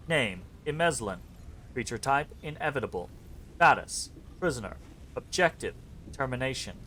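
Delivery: lightly robotic, even monotone reading; half-hearted robot, words flat and measured; cheap robot voice. Acted. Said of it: "cheapskate robot voice".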